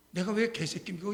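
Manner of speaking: usual speaking voice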